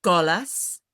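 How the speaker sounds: syllable by syllable, one at a time; staccato. Shown as a demonstration. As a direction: separate each syllable with a pause. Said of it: "repeat after you syllable by syllable".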